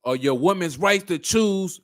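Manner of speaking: slow, measured mock recital; parroted slogan. Host echoing the clip's slogan, slow mimicry. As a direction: recite the slogan slowly, with mild mockery. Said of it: "I hear that so much".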